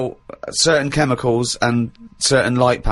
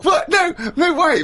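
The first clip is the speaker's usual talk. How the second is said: laughing disbelief. Real, not acted.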